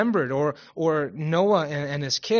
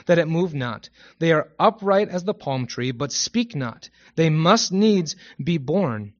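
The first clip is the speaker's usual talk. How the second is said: forceful, declaimed prophecy; emphatic Bible reading, key words punched; scripture reading; 4 dB louder than usual. Acted. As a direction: proclaim the prophet's words to a congregation. Reads Jeremiah aloud.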